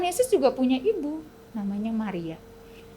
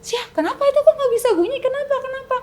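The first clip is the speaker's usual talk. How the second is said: high, puzzled crowd voice; confused crowd; 12 semitones higher, 4 dB louder, faster than usual. Acted. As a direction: sound baffled as the townsfolk. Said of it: "masyarakat semuanya bingung". (rakyat bingung dengan suara tinggi)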